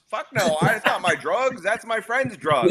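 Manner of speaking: high-pitched, protesting denial; mock lying defendant. Defendant lying to the cops, mock denial. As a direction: play an indignant suspect, pitched well up. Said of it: "Defendants always lie to the cops".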